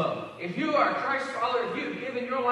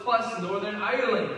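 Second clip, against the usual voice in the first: a light, hammed-up Irish accent on "Northern Ireland"; 3 dB louder than usual. Pastor joking with the congregation, mock Irish accent. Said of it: "That's the best Irish accent I can do".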